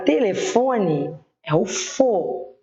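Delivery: telefone slowly, with FO drawn out; stress on FO. Shown as a demonstration. Teacher showing pupils the tonic syllable, drawing out FO in telefone. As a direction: stretch the FO in telefone, then repeat it alone. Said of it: "que é a sílaba tônica".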